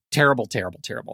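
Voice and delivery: "terrible" repeated, dying away to nearly nothing; "terrible, terrible, terrible" sinking into a weary hush; fading repetition. Real, not acted. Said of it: "I think that it was terrible".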